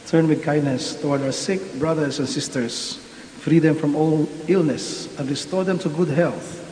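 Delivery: solemn, measured prayer voice; liturgical prayer. Acted. Prayer for the sick.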